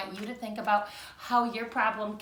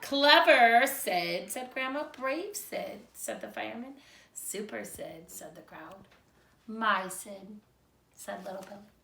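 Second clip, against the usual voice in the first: put-on lively read-aloud for young children; storybook reading. A narrator's reading. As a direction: read it like a picture book to second graders. Praise quotes fading to quiet.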